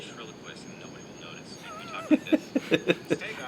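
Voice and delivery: quiet real laughter; long, soft run of laughs; laughing. Real, not acted. Streamer cracking up at the glitchy stream, real laughter.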